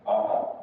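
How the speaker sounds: "Uh-huh" low, lifting at the end; rising intonation. Shown as a demonstration. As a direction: start "Uh-huh" low and rise. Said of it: "is rising".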